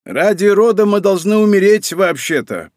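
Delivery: high, creaky crone's objection; old woman's high, insistent croak. A narrator's reading. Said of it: "проскрипела какая-то старуха".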